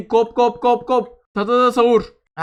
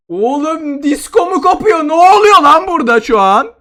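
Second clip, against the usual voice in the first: excited shout; 5 semitones higher, 6 dB louder than usual. Real, not acted. Chaotic disco effect in game.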